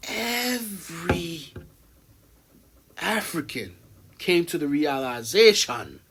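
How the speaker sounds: put-on slow, drawn-out Jamaican accent. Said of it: "He put the Jamaican accent on the African".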